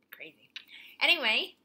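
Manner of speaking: unvoiced whispered anyway; whispered segue. Real, not acted. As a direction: drop to a breathy hush. Whispered transition word.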